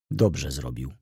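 niski, opanowany głos; spokojny ton. Acted. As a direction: Wokulski odpowiada ze spokojem. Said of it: "już zupełnie spokojnym tonem". (spokojnie, niżej)

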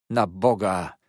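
loud, anguished cry. A narrator's reading. Uncle realising who took his niece, crying out loud. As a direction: cry it out as if struck. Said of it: "krzyknął pan Peggotty".

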